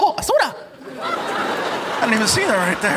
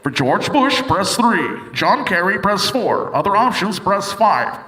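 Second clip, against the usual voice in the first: recorded hotline voice; 2 semitones lower, slower than usual. Retold or imitated. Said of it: "put an eight hundred number".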